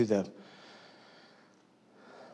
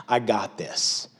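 cocky; 3 semitones lower, slower than usual. Retold or imitated. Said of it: "we got this attitude like".

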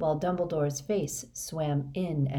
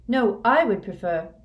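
higher, louder protest; raised objection; 5 semitones higher, 7 dB louder than usual. A narrator's reading. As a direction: object firmly, voice lifted. Dumbledore objects, is cut off.

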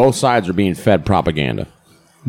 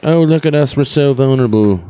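mock whiny; 6 semitones higher, 3 dB louder than usual. Mocking the US posing as weak.

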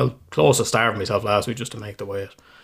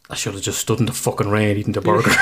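laughing. Retold or imitated. Regretting the food choice.

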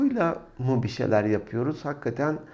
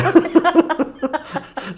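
loud high laugh; 7 dB louder than usual. Real, not acted. Bursts out laughing.

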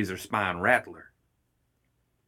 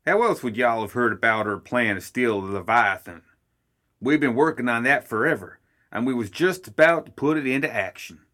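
Summer, a little louder, defending his family's plan; indignant gremlin Summer; 2 semitones higher, 3 dB louder than usual. Acted. Summer arguing with Ma over who planned it, louder and indignant. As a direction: bluster like a proud gremlin chief.

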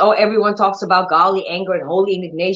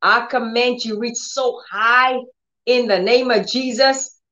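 commanding the arm; 4 semitones higher than usual. Shown as a demonstration. Believer speaking to a hurting arm, firm and raised. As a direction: order the arm to reach up. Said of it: "You say".

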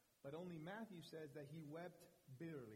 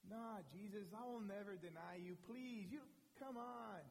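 proud Peter; 4 semitones higher than usual. Retold or imitated. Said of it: "That pride, that arrogance".

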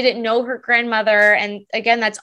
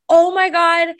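higher-pitched retold gush; imitated excited broker; 5 semitones higher, 4 dB louder than usual. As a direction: imitate an eager broker's exclamation. Eager broker voiced in a story.

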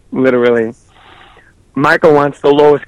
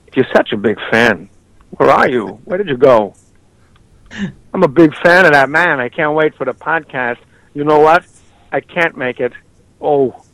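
Christopher Walken impression. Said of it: "Christopher Walken".

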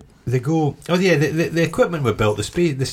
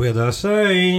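eager collaborator; 9 semitones higher, much slower than usual. Acted. Acting an eager traitor.

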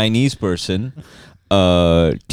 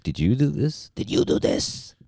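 imitating European girl; 3 semitones higher, 8 dB quieter than usual.

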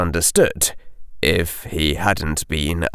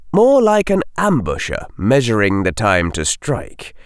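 plain reading voice

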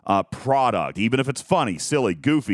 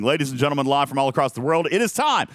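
announcer voice; 6 semitones higher than usual. Acted. Introducing the news headlines segment.

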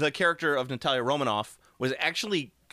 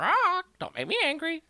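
Hulk voice. Pretend. Joking Hulk-cockatiel voice.

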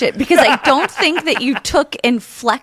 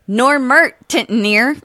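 put-on reading a phonetic spelling as a UK regional accent; slower than usual. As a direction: sound out the phonetic sentence slowly. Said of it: "Baz has got to guess what accent it is".

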